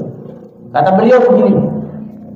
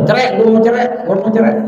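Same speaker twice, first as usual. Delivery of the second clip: wife demanding divorce; 9 semitones higher than usual. Acted.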